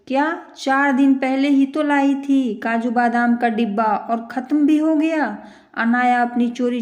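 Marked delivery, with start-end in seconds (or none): 0.1-5.4 rising shocked disbelief, a touch louder; surprised. Acted. Mother-in-law finds snacks gone. (चौंककर हैरानी से)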